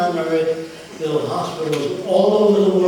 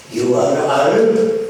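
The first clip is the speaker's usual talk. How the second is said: put-on slow, loud Arab-accented question; 5 dB louder, slower than usual. Arab group leader questioning a caller, Arab accent. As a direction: imitate an Arab man speaking accented English. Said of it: "said in an Arab accent".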